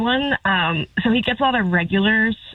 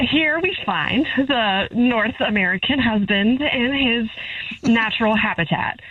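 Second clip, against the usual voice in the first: nature documentary narrator. Acted. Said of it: "as a nature documentary narrator".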